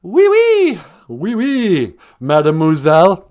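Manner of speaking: high, loud hammed-up French oui oui; mock French accent. Host teases Diane back from France in a mock French accent. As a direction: play a cartoon Frenchman greeting a lady.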